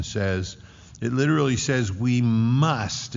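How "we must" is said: "must" landed firmly after "We"; emphatic MUST. Shown as a demonstration. Preacher explains what the word literally says, emphatic "must". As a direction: put the weight on "must". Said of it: "It's emphatic".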